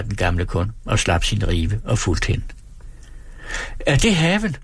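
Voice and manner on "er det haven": high raised call from a window. A narrator's reading. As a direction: call the question across the yard. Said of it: "råbte enkefruens halte datter fra sit vindue".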